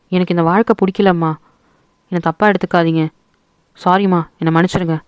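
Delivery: a daughter pleading sorry to her mother; apologetic letter. Acted. ஓடிப்போன மகளின் கடிதம், மெல்லிய மன்னிப்பு குரலில்.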